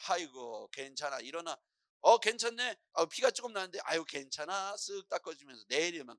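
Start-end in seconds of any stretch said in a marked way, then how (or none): 0.1-1.6 lower, softer, casual reassurance; unfazed mother. Acted. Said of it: "엄마가 아무렇지도 않게". 2.0-4.7 lightly acted casual reassurance; unfazed mother. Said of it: "엄마가 아무렇지도 않게".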